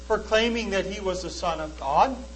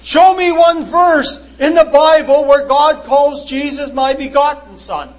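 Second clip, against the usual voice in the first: loud, higher, leaning hard on "begotten"; stress on begotten; 4 semitones higher, 7 dB louder than usual. Retold or imitated. Preacher voicing the Muslim's objection, loud and higher with "begotten" hit hard. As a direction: punch "begotten" as the skeptic's sticking point. Quoting skeptic's demand.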